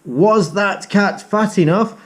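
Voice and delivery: questioning sing-song rise; storyteller's rising prompt. Shown as a demonstration. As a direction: ask it with a big rising lilt. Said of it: "I will say".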